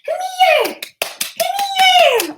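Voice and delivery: very high doggy-talk voice; calling the dog. Real, not acted. Calling her dog over.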